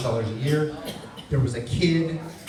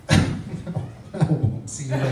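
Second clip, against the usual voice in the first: slow line broken by laughter; comic cracking up at his own goodbye; laughing; much slower than usual. Real, not acted. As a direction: laugh through the words. Laughing self-correction.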